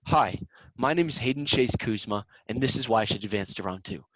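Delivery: engaged, friendly introduction; a sincere hello that keeps judges listening; genuine intro. Shown as a demonstration. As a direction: greet them as if talking in person. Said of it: "I hear that, I'm listening".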